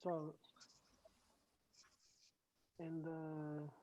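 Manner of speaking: very faint, far from the mic; barely audible. Real, not acted. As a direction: speak so softly it barely carries. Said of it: "Your voice is very low".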